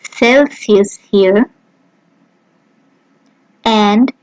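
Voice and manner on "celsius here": Celsius with a German ts at the start; German Celsius, ts sound first; German pronunciation. Shown as a demonstration. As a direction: Celsius said slowly, tsel-zee-oos. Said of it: "as in the words".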